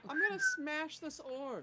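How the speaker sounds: loud, high shouted warning; yelled threat. Acted. Rakona threatens to break the orb, yelling out. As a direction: call it out as a threat. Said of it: "will yell out".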